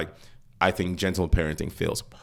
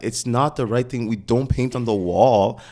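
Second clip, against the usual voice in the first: slow, raised-pitch parental correction; not even stern; 3 semitones higher, 4 dB louder, slower than usual. Acted. Parent to a toddler painting the wall, slow correcting. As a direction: spell it out slowly for a toddler. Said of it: "a, a stern way".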